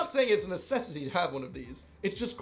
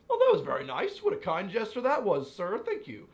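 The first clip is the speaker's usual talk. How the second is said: overly polite thanks; 4 semitones higher than usual. Retold or imitated. To the friend buying a round, high gushing mock thanks. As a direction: ham up being grateful for a free drink. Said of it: "And I was like".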